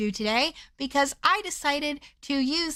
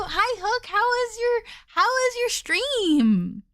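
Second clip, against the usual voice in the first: cute anime streamer; 8 semitones higher than usual. Acted. Greeting viewer.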